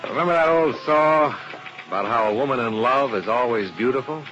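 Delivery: calm, even narration of the case; detective story narration. A narrator's reading. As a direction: tell it like a private eye's report.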